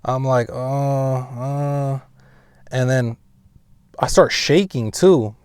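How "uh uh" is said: soft drawn-out groan; imitated sleep noises. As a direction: imitate groaning half asleep. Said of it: "I start making those noises again".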